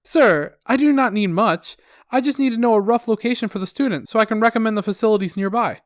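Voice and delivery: politely persist as the upbeat rep; sickeningly positive. Acted. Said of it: "my sickeningly positive customer service attitude".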